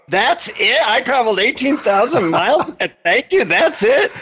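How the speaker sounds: high-pitched, incredulous protest; indignant disbelief. Retold or imitated. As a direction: act out being let down and baffled. Retells his disbelief at guru.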